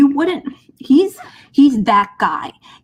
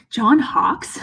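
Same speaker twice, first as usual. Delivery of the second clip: whisper. Real, not acted. Whispered aside about cast.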